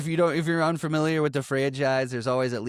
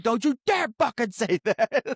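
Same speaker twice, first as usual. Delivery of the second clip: much higher, louder mock-furious snap; snapping; 11 semitones higher, 4 dB louder than usual. Fallen angel snapping at Matt Damon's character, loud mock fury. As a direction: bite back at the insult. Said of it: "he snaps out at it too".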